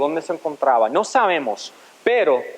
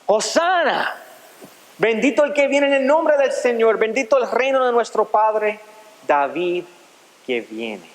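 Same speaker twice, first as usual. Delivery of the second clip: imitated crowd cry; 4 semitones higher than usual. Preacher voicing the crowd greeting Jesus, raised proclaiming cry. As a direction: call out praise like the crowd. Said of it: "comenzaron a gritar".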